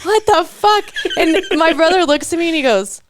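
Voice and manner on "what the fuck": high, exasperated yelp; mock outrage at the stuck tree; retold exasperation. Venting about the tree frozen to the house, exasperated yell.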